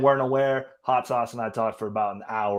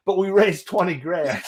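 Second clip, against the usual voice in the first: laughing cheerful quote; 6 semitones higher than usual. Retold or imitated. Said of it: "the next sentence was like".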